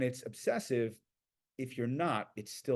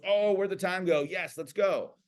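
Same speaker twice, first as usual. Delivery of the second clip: surprised; 6 semitones higher, 5 dB louder, slower than usual. Retold or imitated. Pianist surprised it is lunchtime.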